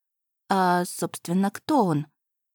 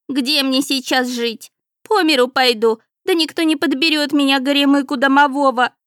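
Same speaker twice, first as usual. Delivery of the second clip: higher, louder tearful complaint; sobbing lament; 5 semitones higher, 6 dB louder than usual. A narrator's reading. The homeless house spirit laments his fate to the cat, tearful. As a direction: wail self-pityingly through sobs. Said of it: "Сквозь всхлипывания".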